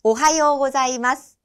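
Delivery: careful teacher demo of 오하요 고자이마스; Japanese greeting demo. Shown as a demonstration. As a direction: model the Japanese 오하요 고자이마스 for learners to copy. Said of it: "라고 발음합니다".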